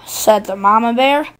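ordinary delivery

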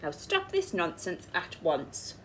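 firm scolding, slowing at the end; wife ordering him out of bed; stern. Acted. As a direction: lay down the law. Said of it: "she said sternly".

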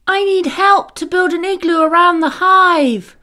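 little bee shouts for help to the herd; shouting. A narrator's reading. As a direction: call up to the sheep. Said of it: "he shouted".

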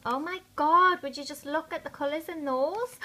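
excited. Real, not acted. Admiring the glosses.

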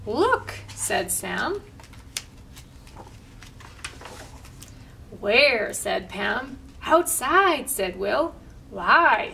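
lively picture-book read-aloud with voiced lines; reading to children. A narrator's reading. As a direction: read it out brightly to a group of kids.

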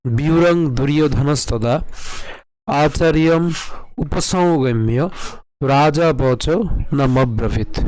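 measured Sanskrit verse chanting; sloka recitation. Shown as a demonstration. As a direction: recite the verse steadily, syllable by syllable.

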